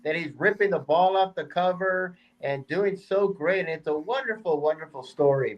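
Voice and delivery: mock-admiring, laying on the praise; sarcastic. Real, not acted. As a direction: gush with tongue in cheek. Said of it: "I'm being sarcastic".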